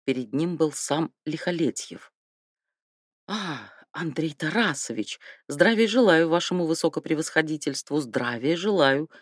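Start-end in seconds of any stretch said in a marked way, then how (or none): 3.3-9.1 fawning, bowing and scraping; a touch of servile flattery; obsequious. Acted. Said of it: "Угодливо расшаркался Железноградов".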